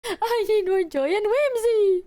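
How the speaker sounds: high, loud, slow theatrical plea; hammed-up plea. Begging chat for joy and whimsy, loud and theatrical. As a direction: belt it like a stage demand.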